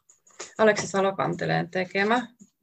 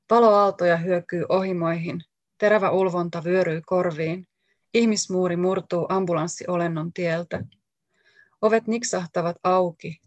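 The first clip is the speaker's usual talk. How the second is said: measured, deliberate reading of a poem, each image set apart; poetry reading. Acted. Author reading her own poem aloud to the audience, measured and deliberate. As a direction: read it out like a poet giving a live reading.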